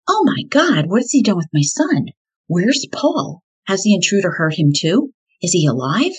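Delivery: frantic, searching for her son; panicked. Retold or imitated. Panicked mother missing her son.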